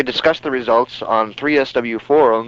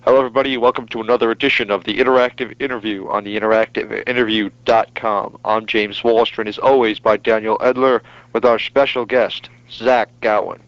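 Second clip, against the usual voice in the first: announcer voice. Shown as a demonstration. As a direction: introduce the show like a radio host.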